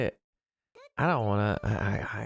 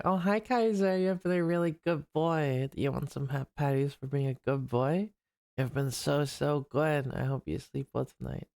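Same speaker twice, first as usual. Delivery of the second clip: pet talk. Real, not acted. Streamer fussing over a good boy at bedtime, doting.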